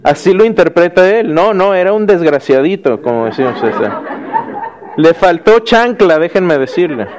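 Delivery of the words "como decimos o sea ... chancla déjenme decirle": chuckling through a joking remark; real laugh breaking into the words; laughing aside. Real, not acted. Teacher joking to the class about a spoiled son, laughing.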